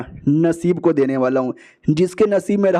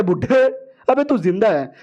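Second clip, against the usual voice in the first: surprised; 3 semitones higher than usual. Acted. Old man turns up alive.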